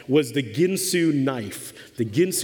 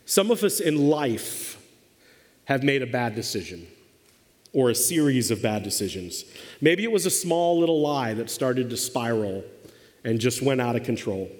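sober, with long pauses, phrases settling lower; serious; 3 semitones lower than usual. Real, not acted. Preacher to congregation about bad life decisions, serious. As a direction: turn earnest and measured after the joking. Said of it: "let's get serious for a few minutes".

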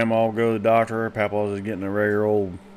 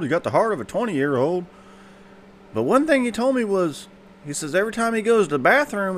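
doctor voiced much higher; 10 semitones higher, 3 dB louder than usual. Doctor telling mama what papa said, much higher. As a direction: tell it pitched way up.

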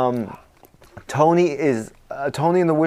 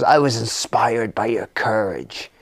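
lower, softly earnest witch; lightly voiced witch; 4 semitones lower, 4 dB quieter than usual. Witch answering the hero she rescues, lightly voiced and low. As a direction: give her a low, hushed sincerity.

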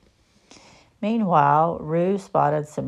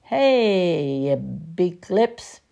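louder, slow teasing call; Tigger shouting; 4 dB louder, much slower than usual. Acted. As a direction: call up at the bird. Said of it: "Tigger shouted".

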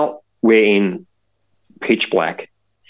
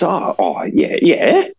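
hesitant, pitch jumping up on the yeahs; awkward; 2 semitones higher than usual. Retold or imitated. Michelle humours Tom's question about magic, imitated awkwardly. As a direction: imitate an uneasy, over-agreeable answer.

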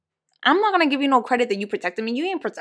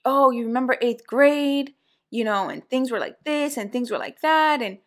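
mimicking the caller; 2 semitones higher than usual. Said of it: "And he started".

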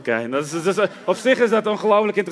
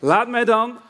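higher-pitched acted plea; calling out; 5 semitones higher, 3 dB louder, slower than usual. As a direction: act out a disciple appealing to his Lord. Acts Peter calling to Jesus. (met hogere stem roepend, als Petrus)

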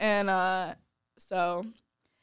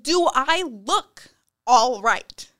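sarcastic retort; 3 semitones higher, 6 dB louder, much slower than usual. Retold or imitated. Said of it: "And I was like".

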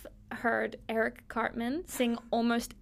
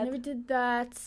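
lightly imitated presidential denial; a touch of Trump's cadence; Donald Trump. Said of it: "What's something Donald Trump says?".

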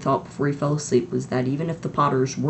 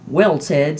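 chirpy TV weatherman; jolly forecaster greeting; 6 dB louder than usual. Acted. Weatherman answering the anchor, chirpy.

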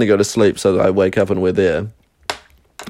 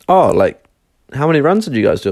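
innocent; 5 semitones higher than usual. Retold or imitated. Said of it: "I asked real innocently".

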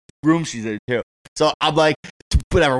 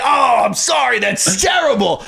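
high, loud, slow fake concern; mock sympathy; 9 semitones higher, 3 dB louder, slower than usual. To the neighbor about her cheating husband, hammed-up pity. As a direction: lay the sympathy on thick.

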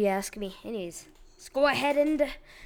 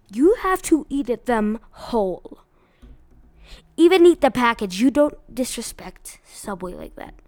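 mock outrage; 9 dB louder than usual. Real, not acted. Mock outrage over the sandwich.

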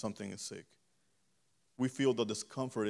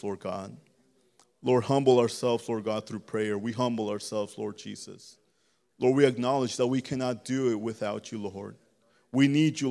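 earnest, steady spoken prayer; fervent prayer; 4 dB louder than usual. Real, not acted. Preacher praying aloud for the congregation, fervent prayer. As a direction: plead with God in an unbroken flow.

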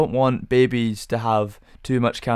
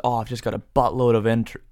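bad American accent. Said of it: "that's a horrendous accent".

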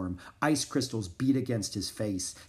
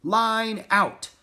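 loud, high sled command; commanding shout; 10 semitones higher, 6 dB louder than usual. A narrator's reading. Jack ordering the dog team to line out, commanding shout. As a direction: call it out to the team. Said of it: "Jack commanded".

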